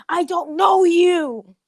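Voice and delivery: flat brush-off. Acted. Bakugo dismisses stalker girl.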